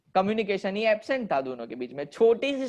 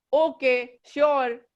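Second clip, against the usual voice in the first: a higher, offhand bear saying okay sure; casual bear; 4 semitones higher, 3 dB louder, much slower than usual. Acted. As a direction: toss it off like an easygoing bear. Bear agrees to rabbit. (भालू का लापरवाह "okay, sure")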